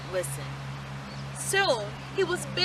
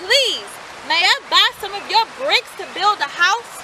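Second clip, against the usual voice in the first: higher, louder pig; third pig asking; 6 semitones higher, 6 dB louder than usual. A narrator's reading. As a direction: ask the builder. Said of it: "he asked".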